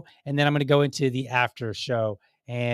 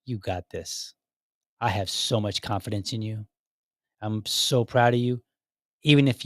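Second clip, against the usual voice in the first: encouraging wife. Pretend. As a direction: tell him gently that you believe in him. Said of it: "you look him right in the eyes and you're like".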